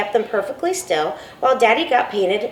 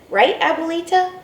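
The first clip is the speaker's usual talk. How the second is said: appealing to grandma; 8 semitones higher than usual. Acted.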